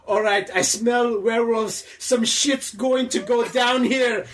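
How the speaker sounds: loose put-on Kiwi accent; shaky New Zealand accent. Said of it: "stop with the accent".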